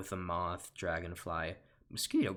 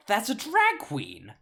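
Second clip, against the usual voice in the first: much higher and louder, slow; shocked exclaim; 13 semitones higher, 10 dB louder, slower than usual. Acted. Bee shocked at seeing the queen. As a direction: blurt it out in disbelief.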